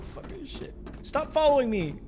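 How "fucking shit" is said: unvoiced breathy curse under breath; hissed curse. Real, not acted. Player chased by a monster, hissed curse. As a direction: hiss it in fear.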